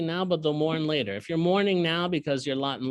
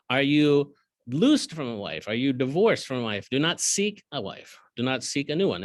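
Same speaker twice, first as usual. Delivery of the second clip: measured, slightly louder reading of the verse; scripture reading; 3 dB louder than usual. Acted. Bible teacher reading the verse to his class, measured. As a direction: give the verse its weight.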